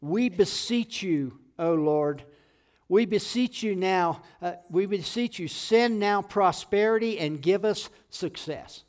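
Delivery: slow, emphatic scripture plea; measured pleading, each phrase drawn out; David crying out. Retold or imitated. Preacher reads David's cry to the Lord, slow crying out. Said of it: "David is crying out to the Lord".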